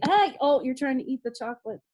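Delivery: sudden loud, high hey to the dog; startled scolding. Real, not acted. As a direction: caught off guard by the dog. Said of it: "now my dog is attacking me".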